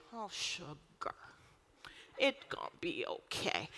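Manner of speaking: mock sweet reassurance; syrupy comfort. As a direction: coo like a doting grandma. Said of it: "If God was like".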